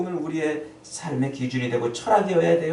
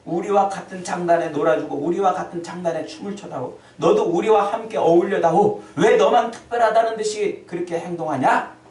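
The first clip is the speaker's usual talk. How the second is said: mocking demand; 3 semitones higher, 4 dB louder than usual. The crowd demanding Jesus play along, loud and accusing. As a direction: call him out like a crowd that resents him. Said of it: "예수님에게 요구하는 거예요".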